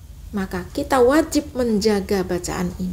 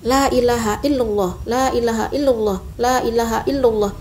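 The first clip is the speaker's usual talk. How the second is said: la ilaha illallah repeated steadily; model recitation; faster than usual. Shown as a demonstration. Teacher recites the phrase for students.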